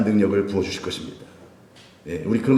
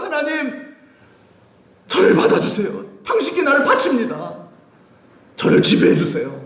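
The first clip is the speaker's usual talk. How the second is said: fervent prayer; 13 semitones higher than usual. Pretend. Preacher acting out surrender prayer.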